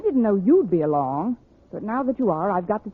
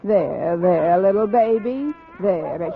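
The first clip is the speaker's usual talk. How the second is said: put-on soothing baby; 3 semitones lower, slower than usual. Miss Brooks soothing a crying baby.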